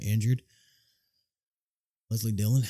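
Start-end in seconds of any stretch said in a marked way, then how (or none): 2.1-2.6 wrestling promo. Pretend. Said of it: "I'm gonna cut a wrestling promo real quick".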